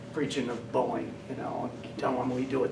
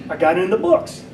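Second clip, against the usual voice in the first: quoting Scully; 5 semitones higher, 8 dB louder than usual. Retold or imitated. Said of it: "He goes".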